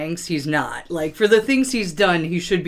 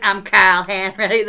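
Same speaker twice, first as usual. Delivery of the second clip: mock Boston accent, Kyle for Carl; hammed-up Boston self-introduction; a light Boston impression. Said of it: "That's, uh, his Boston accent right there".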